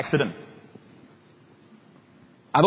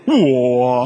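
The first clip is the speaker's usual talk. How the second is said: mock startled whoa; 3 semitones lower, 5 dB louder than usual. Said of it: "If you're down there, you say".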